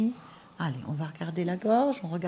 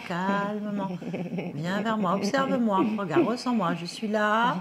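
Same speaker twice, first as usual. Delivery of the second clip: insistent hypnotic call. Acted. Medium calls spirit toward her voice.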